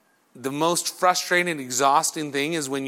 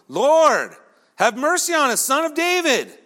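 higher, more insistent shouted plea; crying out all the more; 10 semitones higher, 4 dB louder than usual. Acted. Rebuked blind men calling to Jesus, crying out all the more. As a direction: push the cry higher, more desperate to be heard. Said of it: "they cried out all the more".

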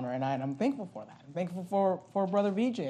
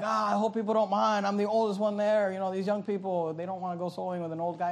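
imitating dad; 4 semitones higher than usual. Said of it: "he'll say".

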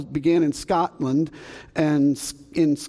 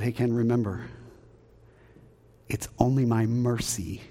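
a hint of a gentle divine voice, softer; voice of God; 7 semitones lower, 7 dB quieter than usual. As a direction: speak as God reminding him quietly. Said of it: "And God said".

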